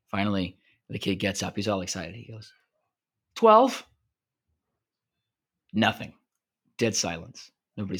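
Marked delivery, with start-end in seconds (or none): 3.4-3.9 loud, high, proud shout; eager call-out. Acted. New kid proudly shouting his joke number, loud and high. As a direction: blurt the number out, sure it will kill.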